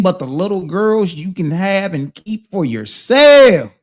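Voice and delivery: emphatic challenge from the pulpit; pointed quoting. Acted. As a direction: quote it slowly, landing hard on the last word. Mockingly quotes scripture.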